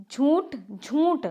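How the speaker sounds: झूठ drawn out as jhoonth, nasal vowel; slow, nasalised jhoonth for झूठ; wrong nasalised pronunciation. Shown as a demonstration. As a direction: stretch झूठ slowly with an n sound. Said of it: "झूठ बिल्कुल गलत".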